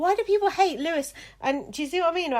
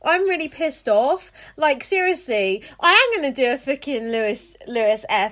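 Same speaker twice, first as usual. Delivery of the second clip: loud, furious swearing rant; angry rant; 6 dB louder than usual. Real, not acted. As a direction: blow up at the listener's email. Host furious about a rude email.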